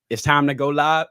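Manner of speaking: light first go at a rapper's voice. Acted. Host reads a viewer's request, mild rapper voice. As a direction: impersonate the rapper, held back. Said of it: "says in my rapper voice".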